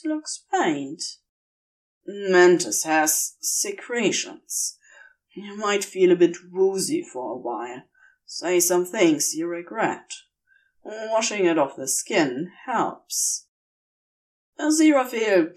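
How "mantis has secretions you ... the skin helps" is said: a hint of a calm demon explaining; Crowley, explaining.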